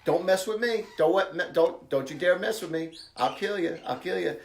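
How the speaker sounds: mock tough warning, said lovingly; half-serious roughhousing dare; affectionate mock threat; playful threat. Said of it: "saying this in a very loving way".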